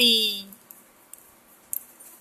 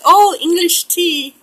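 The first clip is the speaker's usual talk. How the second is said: imitating delighted guest; 6 semitones higher, slower than usual. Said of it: "She's like".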